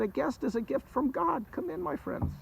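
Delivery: high-pitched, gracious host; hospitable welcome. Acted. Host tells travelers a guest is a gift, welcoming. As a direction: welcome guests with a lifted, gentle voice.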